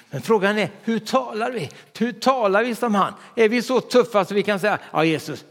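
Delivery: ordinary talk, nothing marked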